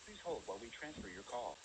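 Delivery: phone menu voice. Acted. Automated Toyota Financial phone line.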